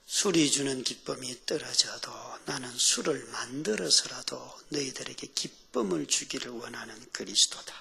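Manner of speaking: low, soft, hushed divine voice; the Lord. Acted. The Lord promising joy to believer, hushed. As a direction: speak gently and low, letting phrases breathe. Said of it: "주님이 이러시는 거예요".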